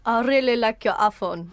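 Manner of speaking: attempted Afrikaans accent, shaky "iPhone". Shown as a demonstration. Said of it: "That's not bad. I think iPhone needs work".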